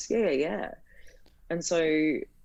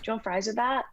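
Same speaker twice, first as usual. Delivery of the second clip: cheery waitress; 7 semitones higher, faster than usual. Retold or imitated. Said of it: "And she's like".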